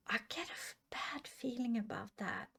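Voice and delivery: ominous whisper. Real, not acted. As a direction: lean in and whisper your bad hunch. Ominous hunch about rich friend.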